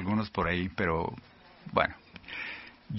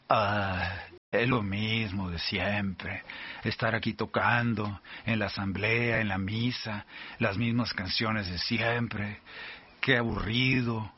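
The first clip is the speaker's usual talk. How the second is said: bored; 2 semitones lower, slower than usual. Retold or imitated. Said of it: "O dices".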